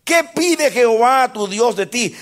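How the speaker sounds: a high, loud voice of God calling to man; God's reply to man, lightly voiced and lifted; God answering. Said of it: "Y dice Dios".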